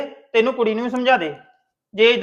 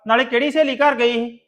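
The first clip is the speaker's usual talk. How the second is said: angry brother; 4 dB louder than usual. Acted. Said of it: "ਗੁੱਸੇ ਵਿੱਚ ਕਾਹਤੋਂ ਪੈਣ ਡੇ ਇੰਨਾ?".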